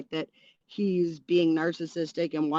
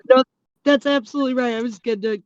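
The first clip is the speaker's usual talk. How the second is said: raised, loud agreement through laughter; amused, laughing; 5 semitones higher, 9 dB louder, faster than usual. Real, not acted. Co-host tickled by what the host is saying, amused and laughing. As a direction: agree loudly while cracking up. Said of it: "I'm just laughing at what you're saying".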